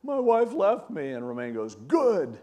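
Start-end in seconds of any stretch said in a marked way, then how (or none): 0.0-1.1 high, louder mock-upset husband; retold tearful cry. Guy tells his pastor of marriage trouble, imitated crying. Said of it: "this guy's crying". 1.7-2.4 loud, emphatic, falling verdict; blunt approval. Retold or imitated. Pastor answers a crying husband, blunt and emphatic.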